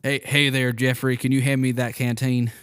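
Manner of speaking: a light put-on Southern accent, barely shifted. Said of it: "I need to hear your accent".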